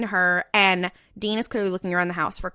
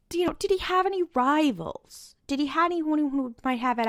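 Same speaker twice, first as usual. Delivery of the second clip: gentle question; 5 semitones higher than usual. Retold or imitated. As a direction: ask it kindly, softening the blow. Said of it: "a little zhuzh something".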